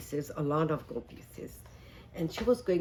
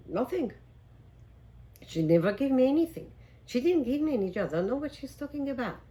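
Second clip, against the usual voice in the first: higher, louder indignant denial; angry denial; 7 semitones higher, 4 dB louder than usual. Acted. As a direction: protest your innocence loudly to the king. Neighbor angrily denies before the king.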